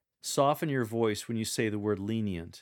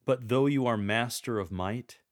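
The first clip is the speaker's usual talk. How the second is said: "But though you are master of might" strong and louder; 4 dB louder than usual. Shown as a demonstration. Coach modelling the verse, strong tone. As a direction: proclaim the might firmly. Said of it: "Use a strong tone of voice for".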